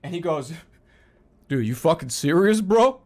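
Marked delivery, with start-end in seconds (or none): 1.5-3.0 incredulous retort. Retold or imitated. Neighbor mocks his dithering.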